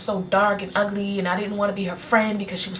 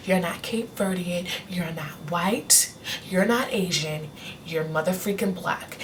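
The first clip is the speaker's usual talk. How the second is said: gentle mom. Retold or imitated. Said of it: "She crushed my little bubble".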